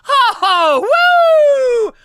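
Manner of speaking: very high, loud laughing cries; hysterical laughing shout. Real, not acted. Streamer cracking up about a vivid dream, shrieking laughter. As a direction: cackle and whoop high and loud.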